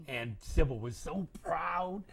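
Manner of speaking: plain reading voice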